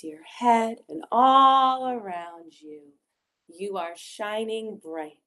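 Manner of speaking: unhurried meditation guide with long pauses; gentle guided visualisation for children. Acted. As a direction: guide small children into calm, phrase by phrase.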